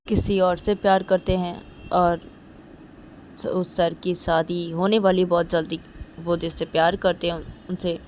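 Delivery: Kajal tells Reshma not to cry, soothing; Kajal consoling. Acted.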